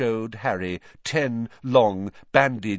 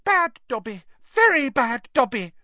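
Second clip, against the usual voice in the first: high, squeaky elf scolding himself; high-pitched self-reproach; self-scolding house-elf; 14 semitones higher, 4 dB louder than usual. A narrator's reading.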